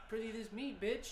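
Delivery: hammy stage actor. Retold or imitated. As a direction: ham up old stage diction. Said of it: "I was like".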